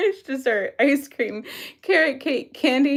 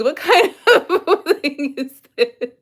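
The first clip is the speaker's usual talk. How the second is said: laughing. Real, not acted. Laughing at quiz options.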